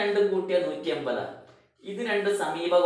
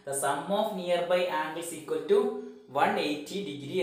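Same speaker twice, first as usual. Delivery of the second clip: "The sum of nearby angles" drawn out very slowly; teacher dictating a rule into notebooks, very slowly; slow dictation; much slower than usual. Shown as a demonstration. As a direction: dictate each word for copying. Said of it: "നോട്ട്ബുക്കിൽ എഴുതിയെടുക്കണം".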